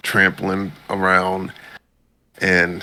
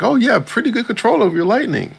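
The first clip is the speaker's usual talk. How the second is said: much higher mock impressed voice; character voice; faster than usual. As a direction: chirp the praise like a cartoon sidekick. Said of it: "And it was just like".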